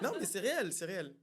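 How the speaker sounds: high, loud laughing insistence. Real, not acted. Laughing agreement among guests.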